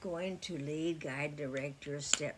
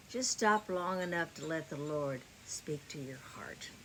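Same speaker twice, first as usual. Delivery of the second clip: whispered plea. Real, not acted. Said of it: "whispered appeal to viewers".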